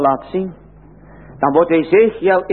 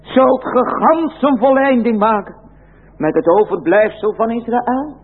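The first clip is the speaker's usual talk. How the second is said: loud cry; 5 semitones higher, slower than usual. Acted. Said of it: "hij riep met luider stem".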